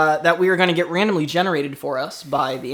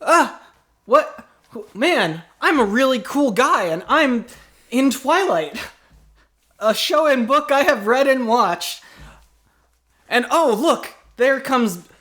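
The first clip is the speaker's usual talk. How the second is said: a lightly raised, gushing fan-fiction narrator; fangirl self-insert; 5 semitones higher than usual. Acted. Improviser plays a self-insert fan, lightly gushing. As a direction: gush about your own cool self.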